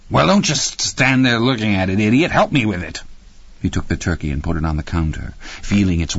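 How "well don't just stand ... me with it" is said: high, exasperated wife's voice; scolding. A narrator's reading. Wife ordering husband to help with turkey, scolding. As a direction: snap at him to help, pitched up.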